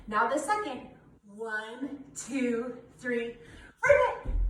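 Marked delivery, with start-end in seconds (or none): 3.9-4.3 high, loud playful "Ribbit" croak; loud frog ribbit. Shown as a demonstration. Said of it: "We are going to try to ribbit".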